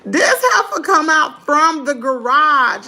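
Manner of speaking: slow, drawn-out, emphatic disbelief; voiced, scandalized storytelling; incredulous outburst. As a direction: hit every word, appalled at where she appeared. Repeats the reveal out loud, incredulous.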